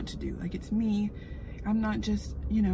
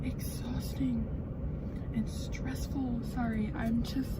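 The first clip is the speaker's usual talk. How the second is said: choked up; 3 semitones higher, 3 dB quieter, slower than usual. Real, not acted. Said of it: "taken aback".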